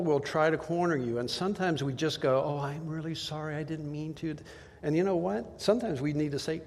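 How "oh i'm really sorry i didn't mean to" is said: much softer, sheepish apology; meek apology. Retold or imitated. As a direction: shrink back and apologize. Giving in when cornered.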